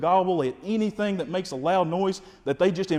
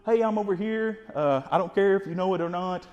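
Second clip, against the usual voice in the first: hen's casual call; 4 semitones higher than usual. Retold or imitated. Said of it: "the turkey letting them know".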